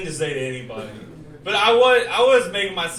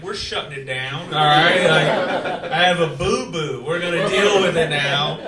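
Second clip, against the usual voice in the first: 1 whiny through laughter; 3 semitones lower, 4 dB louder than usual. Retold or imitated. Whiny reaction to stubbed toe.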